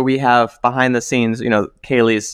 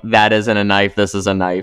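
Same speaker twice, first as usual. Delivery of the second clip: hammy fake Aussie accent; mock Crocodile Dundee line; bad Australian accent; 2 semitones lower than usual. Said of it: "your Australian accent is so bad".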